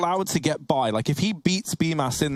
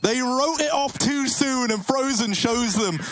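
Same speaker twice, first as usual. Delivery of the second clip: esports caster; 5 semitones higher than usual. Real, not acted. Caster hits the clutch climax.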